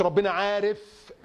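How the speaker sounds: عارف stretched out long; slow quote, lingering on عارف; wrong wording example. Shown as a demonstration. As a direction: draw out عارف slowly as the word to avoid. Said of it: "ما تقولش".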